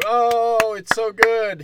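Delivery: high, loud gushing praise; mock gushing. Moviegoer cheering a film, high mock gushing.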